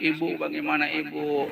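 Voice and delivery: lightly acted crying child; imitated whimpering appeal to mother; mock tearful child. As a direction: plead like a weeping child, only half in earnest. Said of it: "Anaknya menangis".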